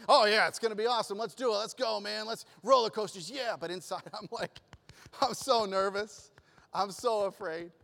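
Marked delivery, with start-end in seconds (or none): 0.1-3.6 fake bravado. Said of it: "so I'm sitting there going".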